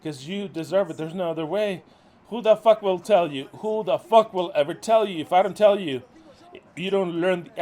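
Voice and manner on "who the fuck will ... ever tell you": loud, furious scolding; angry shout. Real, not acted. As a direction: yell it at the whole group. Minister scolding his followers.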